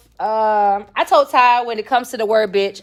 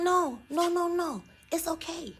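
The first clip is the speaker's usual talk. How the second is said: mock reassuring; 5 semitones higher, 7 dB quieter than usual. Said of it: "And I'm like".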